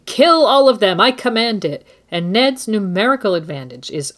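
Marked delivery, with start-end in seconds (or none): 0.0-1.9 raised, high command of a furious king; loud, high-pitched royal order; shouting. A narrator's reading. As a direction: shout the order as Joffrey would. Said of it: "soon he's shouting".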